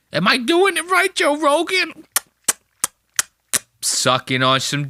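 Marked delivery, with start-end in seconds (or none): 0.1-2.0 mocking Chris. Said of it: "And Chris is sitting there".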